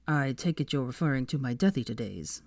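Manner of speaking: low, easygoing Malfoy; offhand low admission; casual. Acted. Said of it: "said Malfoy casually".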